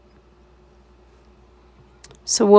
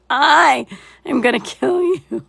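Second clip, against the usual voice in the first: laughing through words; 4 semitones higher than usual. Retold or imitated. Mock threat retold, laughing.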